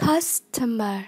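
"Customer" stressed on CUS; weight on CUS in "Customer", the rest lighter; stress on first syllable. Shown as a demonstration. Teacher modelling vocabulary for learners, "Customer" stressed on CUS. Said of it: "nhấn âm một".

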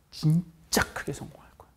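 whispered promise; teacher whispers encouragement. Real, not acted. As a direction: tell them like a secret.

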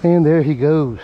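panting after landing the fish; winded, breathing hard between words. Real, not acted. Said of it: "I'm out of breath for that one".

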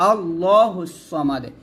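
আল্লাহুস সামাদে recited with জবর on alif, slowly; recitation after pause. Shown as a demonstration. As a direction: start fresh on আল্লাহুস after waqf. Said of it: "এরকমভাবে পড়বো". (ওয়াকফের পরে ধীরে পড়া)

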